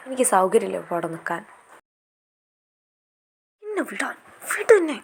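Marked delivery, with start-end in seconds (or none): 3.6-5.0 higher, sharp demand to be released; let me go. Acted. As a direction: pull away and demand to be let go. Struggling to be let go.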